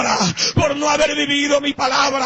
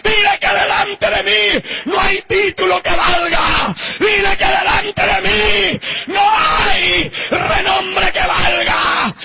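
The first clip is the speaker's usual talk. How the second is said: building from firm to higher, crying shout; rising fervent command; 4 semitones higher than usual. Acted. The Lord sending his message to the preacher, building tearful shout. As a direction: climb with each dile until the voice breaks. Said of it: "Así le decía el Señor".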